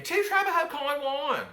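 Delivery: put-on slow, high yell in Southern-accented Spanish; screaming. Teenager yelling from the balcony, high slow scream. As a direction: holler every word, high and drawn out. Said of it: "I am screaming".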